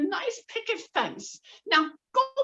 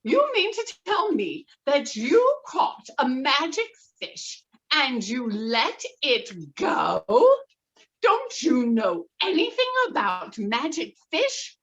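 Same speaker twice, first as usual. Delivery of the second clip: loud, higher scolding; angry wife; 7 semitones higher, 6 dB louder than usual. Acted. Wife scolding the fisherman, loud angry. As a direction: tell him off loudly, much higher.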